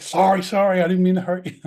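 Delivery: high, hurried apology; flustered apology. Retold or imitated. Rookie apologizing to the trainer he hit, flustered. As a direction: blurt out sorry, caught off guard.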